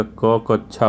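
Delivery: ककच्छा said slowly, syllable by syllable; careful pronunciation. Shown as a demonstration. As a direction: spell out ककच्छा slowly for students. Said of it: "ध्यान दीजिएगा". (शिक्षक का धीमा, साफ़ उच्चारण)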